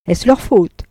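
weighs LEUR, lets it fall; mocking courtroom irony; ironic question. Deslauriers mocking Frédéric's excuse, ironic lawyer's tone. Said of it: "avec une ironie cicéronienne".

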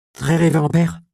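calling out loud and high to stop him; appel fort. Acted. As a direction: shout after the abbot respectfully. Robin appelle l'abbé qui s'éloigne. (appel fort et aigu pour arrêter l'abbé)

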